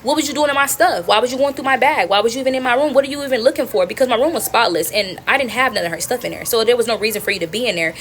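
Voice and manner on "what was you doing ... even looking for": raised-pitch indignant questioning; retold snippy challenge; copped attitude. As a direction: rattle off accusing questions with attitude. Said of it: "I copped an attitude".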